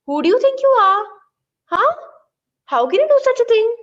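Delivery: put-on high, loud and fast, outraged old woman; indignant old lady. Teacher voicing the old lady scolding the boy, high angry rant.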